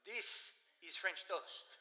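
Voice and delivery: loud, slow mock-French declaration; hammed-up correction, each word drawn out; imitated French friend. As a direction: insist emphatically like an affronted Frenchman. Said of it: "He goes".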